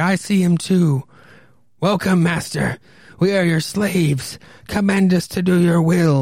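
imitated man's scream. Telling a story about Sprague seeing the devil, imitating Sprague screaming. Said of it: "He's screaming. He's like".

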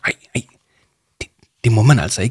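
tight, tense whisper. In an office, one speaker answers a companion who can't keep still; tight whisper. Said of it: "viskede Arthur stramt".

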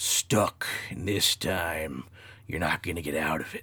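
low, nasty, snarling monster growl. Retelling a voice heard while stuck, in a nasty growling voice. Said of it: "this one nasty, like, growling voice goes".

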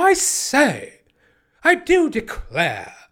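swooping put-on English accent, very slow and high. Retelling an actor's statement: imitating an english actor. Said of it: "he's like one of them English black actors".

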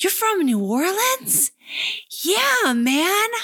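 very high-pitched shout, projected as if across a room. Retelling how she shouted across the room at orientation: imitating someone shouting. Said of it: "she looked at me from across the room and she shouted".

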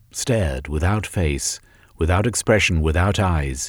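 ordinary delivery

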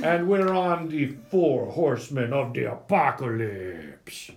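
put-on cartoon character voice. Opening an episode right after the hosts introduce themselves, in Strong Bad voice. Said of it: "that was my strong bad voice this time".

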